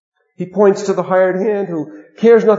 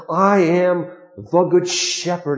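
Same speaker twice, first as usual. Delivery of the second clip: slow, weighty, each word set down firmly; emphatic declaration; slower than usual. Retold or imitated. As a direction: proclaim it slowly with full conviction. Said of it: "the way he says that is so emphatic".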